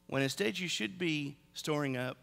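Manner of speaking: Jesus rebuking. Retold or imitated. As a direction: thunder it like a prophet calling out greed. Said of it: "And Jesus would say".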